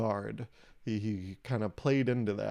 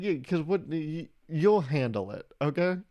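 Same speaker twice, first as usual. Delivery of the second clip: higher, slow condescending parent tone; mock parental scolding; 5 semitones higher, slower than usual. Comic to microwave, mock impatient parent talking down. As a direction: talk down to it like a fussy kid. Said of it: "a parent getting mad at a kid".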